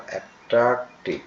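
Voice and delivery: অ্যাট্রাকটিভ broken into at-trak-tiv; teacher's split-up অ্যাট্রাকটিভ; syllable by syllable. Shown as a demonstration. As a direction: sound out অ্যাট্রাকটিভ in separate syllables. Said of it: "আমি এটাও যেমন উচ্চারণ করছি".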